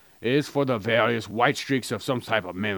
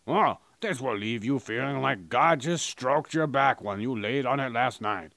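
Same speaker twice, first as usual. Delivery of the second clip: mock ad read; 4 dB quieter than usual. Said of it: "this is how my advertisements would go".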